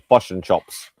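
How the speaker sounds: Fosh and Chops with a Kiwi vowel; lightly imitated Kiwi Fosh and Chops; New Zealand accent. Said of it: "it sounds like they say".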